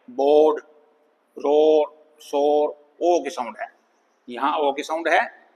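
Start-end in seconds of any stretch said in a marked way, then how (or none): 0.1-2.7 "बोर्ड, रोर, शोर" with short O before R. Shown as a demonstration. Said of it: "short ओ sound भी हो सकती है".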